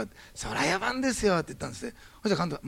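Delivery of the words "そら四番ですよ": confident reply. Retold or imitated. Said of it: "思わず言ったんですよ".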